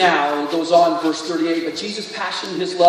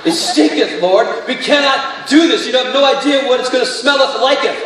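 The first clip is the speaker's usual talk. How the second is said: mock King James; 2 semitones higher than usual. Pastor jokes to congregation in Martha's mock King James voice. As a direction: ham up the archaic endings. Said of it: "need the King James this morning".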